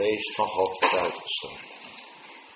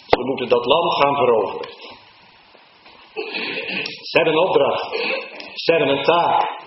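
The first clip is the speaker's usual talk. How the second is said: higher and louder, pressing the task; fervent preaching; 8 semitones higher, 7 dB louder than usual. Acted. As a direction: urge the church on. Preacher at full force. (hoger en luider, dringend preken)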